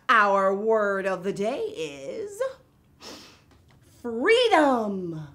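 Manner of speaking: building up to the big word; Miss Vocab. Acted. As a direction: announce the word with a reveal. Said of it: "I'm Miss Vocab".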